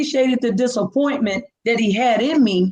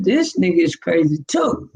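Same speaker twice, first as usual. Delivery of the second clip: deadpan aside; flat, disbelieving put-down; exactly how I said it; 2 semitones lower than usual. Retold or imitated. Telling the listener, flat and unimpressed. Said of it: "that's exactly how I said it".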